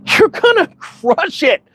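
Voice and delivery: slow it down and reassure him; reassuring encouragement. Retold or imitated. Telling the tired friend he will make it, reassuring. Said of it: "you could see this relief come over him".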